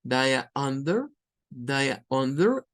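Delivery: Daya under slow, daya as one word with schwa; reduced do you under. Shown as a demonstration. Teacher drilling the reduced form slowly. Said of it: "por un schwa".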